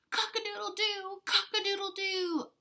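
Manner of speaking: high, loud crowing rooster call. Acted. Teacher reading to kids, crowing like a rooster. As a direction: crow it out like a proud rooster.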